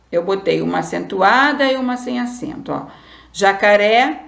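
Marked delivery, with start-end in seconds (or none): 3.3-4.2 jacaré with RÉ stressed, rising; stress on last syllable. Shown as a demonstration. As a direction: push the final RÉ of jacaré louder. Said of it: "é a última sílaba".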